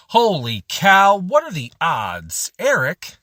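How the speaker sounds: loud, high, drawn-out holler of surprise; excited yell. A narrator's reading. Spotting a friend across the terminal, excited yell. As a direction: yell it slowly across a crowded room. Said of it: "I realized I yelled it across the terminal".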